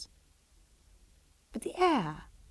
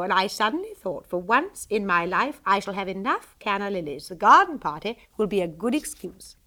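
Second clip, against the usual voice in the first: a hint of a cheerful society lady, a touch louder; lightly voiced breezy mother; 4 dB louder than usual. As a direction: tell her daughter with easy delight. Mrs Sheridan, breezy mother.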